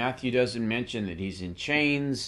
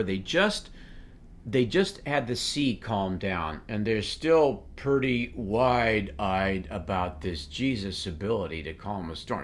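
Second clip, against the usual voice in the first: normal talking voice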